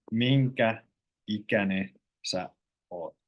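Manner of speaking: slow, careful, drawn out word by word; said slowly. Shown as a demonstration. Finnish teacher showing learners the slow careful version. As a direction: spell it out slowly so learners catch each word. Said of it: "It sounds weird when you say it slowly".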